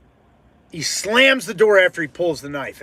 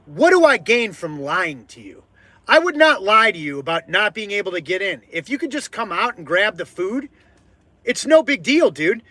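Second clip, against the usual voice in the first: fed up; 4 semitones higher than usual. Retold or imitated. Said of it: "I couldn't take it anymore".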